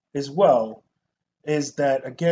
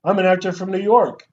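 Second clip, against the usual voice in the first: loud mock actor, New York swagger; 4 semitones higher, 8 dB louder than usual. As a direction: belt it like a hammy actor. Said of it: "at other times he's like".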